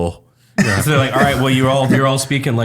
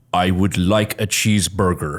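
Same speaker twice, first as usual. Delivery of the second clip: stiff, strained, deep, fake American accent; 6 semitones lower than usual. Retelling an exchange student's only line: forced deep american accent. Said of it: "he would just go really deep".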